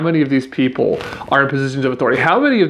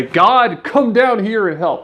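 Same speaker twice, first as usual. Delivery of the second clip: mock pleading prayer; 7 semitones higher, slower than usual.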